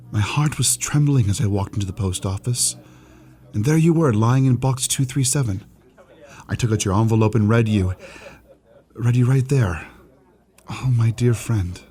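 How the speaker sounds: heartfelt letter reading, voice lifted; reading a love letter. Acted. Clerk reads a girl's letter to his colleague, heartfelt. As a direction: read it out with swelling feeling, building then slowing.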